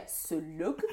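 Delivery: put-on slow, low, disbelieving French accent. French girl who couldn't believe this word, French accent. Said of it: "She just couldn't believe that we developed this word".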